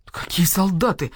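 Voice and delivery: nervous whisper. Acted. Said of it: "занервничал Барсукот".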